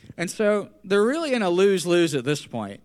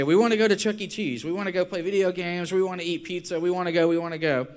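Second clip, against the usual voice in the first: put-on pleading kids; 3 semitones higher than usual. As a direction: run the wants together like pestering children. Kids begging parent for outing.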